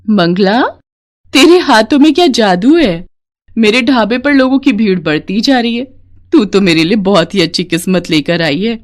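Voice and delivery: a motherly woman scolding the absent husband, then soothing; indignant kindly friend. Acted. Sheela comforting Mangla, mild indignation then warmth. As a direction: take her side and comfort her.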